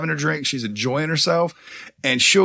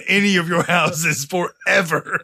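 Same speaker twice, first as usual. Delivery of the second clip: laying a curse; slower than usual. Pretend. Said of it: "making curses and shit".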